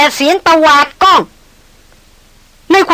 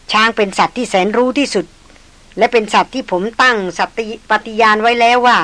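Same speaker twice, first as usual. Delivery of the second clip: calm hunter. Acted.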